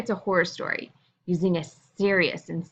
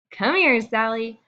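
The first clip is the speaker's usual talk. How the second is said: cheerful call; 4 semitones higher than usual. Shown as a demonstration. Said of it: "I said the same thing in a ton of different ways".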